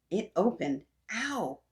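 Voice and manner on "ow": high, short "ow" of pain; storybook yelp after a fall; cry of pain. A narrator's reading. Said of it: "I cried out in pain".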